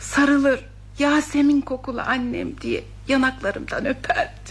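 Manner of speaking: sad, grieving voice. A mother speaks while her child pleads with her to stop grieving; sad, grieving. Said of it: "Anne anne lütfen yeter artık, bırak üzülmeyi".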